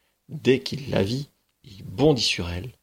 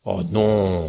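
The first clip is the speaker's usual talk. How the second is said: ogre refusing. Acted. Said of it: "répondit l'ogre".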